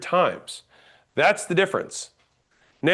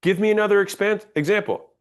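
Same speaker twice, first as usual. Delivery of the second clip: command; 3 semitones higher than usual. Shown as a demonstration. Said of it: "That was a command".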